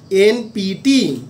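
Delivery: very slow, spaced-out এনপিটি; drawn-out এনপিটি for note-takers; slow dictation. Shown as a demonstration. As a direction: say এনপিটি letter by letter, stretching each one. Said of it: "আমি আস্তে আস্তে বলছি".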